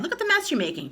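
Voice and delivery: put-on high indignant child voice; boy scolding grandma. A narrator's reading. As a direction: tell her off, upset.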